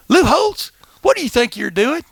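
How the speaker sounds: high-pitched voice of a puzzled little lady. Retold or imitated. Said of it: "this little lady comes up. She goes".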